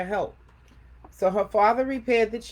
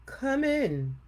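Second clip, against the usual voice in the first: nicest voice; 8 semitones higher than usual. A narrator's reading. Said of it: "in his nicest voice".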